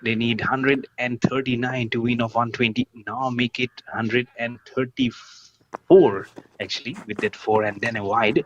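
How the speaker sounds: lively live play-by-play; cricket commentator. Real, not acted. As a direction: call the match like on TV.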